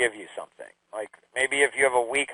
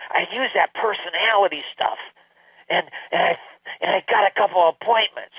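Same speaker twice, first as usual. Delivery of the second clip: excited daughter; 4 semitones higher than usual. Retold or imitated. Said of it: "she was so excited".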